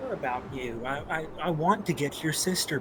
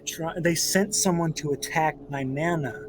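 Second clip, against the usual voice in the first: mom glare. Acted. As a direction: scold him like an angry mom. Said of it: "kinda gives the mom glare again".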